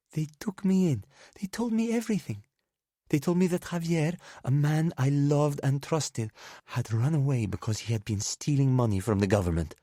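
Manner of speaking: high, hammed-up drunken outburst; drunken rant. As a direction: rush it out, drunk and wounded. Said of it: "speaking in rushed, drunken English".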